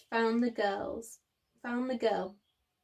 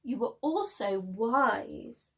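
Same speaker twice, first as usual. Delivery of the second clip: gently; slower than usual. Acted. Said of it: "Father said gently".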